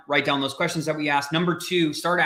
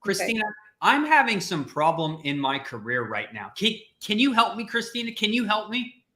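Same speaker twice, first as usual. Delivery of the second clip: pleading job seeker; 4 semitones higher than usual. Pretend. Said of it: "let's role play for a second".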